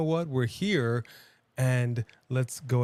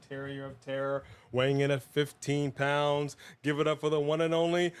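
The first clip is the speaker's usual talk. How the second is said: ringmaster. Acted. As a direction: call the name out like a ring announcer. Ring announcer introduces the dog.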